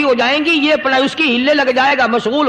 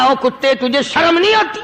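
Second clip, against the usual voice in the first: mildly indignant scolding, lifting at the end; acted anger, scold in disbelief; a touch of outrage; angry rebuke. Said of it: "غصے میں آ گیا".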